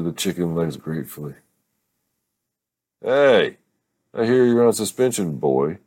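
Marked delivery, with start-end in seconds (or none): 3.0-5.8 high, loud playful holler across the table; grandma yelling. Acted. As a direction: call out to the grandson, teasing but loud. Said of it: "Grammy yelled at Hayden".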